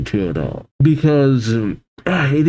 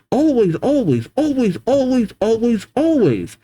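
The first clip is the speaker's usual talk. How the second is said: high, frantic spiralling questions; frantic high rant; 9 semitones higher than usual. Acted. Sapphire's frantic inner spiral.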